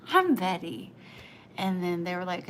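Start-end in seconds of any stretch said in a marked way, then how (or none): 0.1-0.9 slow, louder, in a changed voice; delighted old woman. Retold or imitated. Betty greeting her own reflection, slow and delighted. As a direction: savour the name, delighted. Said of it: "And she goes".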